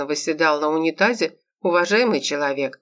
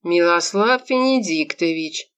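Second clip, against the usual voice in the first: reproachful; slower than usual. Acted. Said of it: "укоризненно воскликнул".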